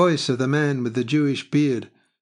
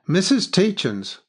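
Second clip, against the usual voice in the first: high, louder form of address; figure addressing her; 8 semitones higher, 5 dB louder than usual. A narrator's reading. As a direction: pronounce the name out loud, pitched up. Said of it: "That figure had said".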